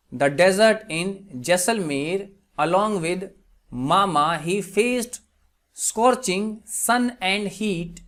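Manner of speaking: very slow, spaced-out example reading; slow dictation. Shown as a demonstration. Teacher gives students an English translation, slow dictation. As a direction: read it out slowly, phrase by phrase. Reads example sentence slowly.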